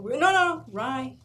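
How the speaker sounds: high, loud quick correction; a man switching bread again on a whim; quoted customer. Retold or imitated. Retelling the man at the bread line, loud and high.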